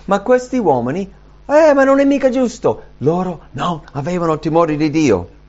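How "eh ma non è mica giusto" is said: high, loud mock protest; indignant complaint. Resentful men complaining about Moses's role, acted indignant protest. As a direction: pipe up as an aggrieved objector. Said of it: "si sono arrabbiati con Mosè".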